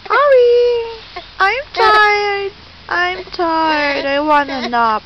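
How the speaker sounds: playful whine, starting high and sinking; mock fussing on the baby's behalf; voicing tired baby. Mother speaking for her tired baby, mild mock whine.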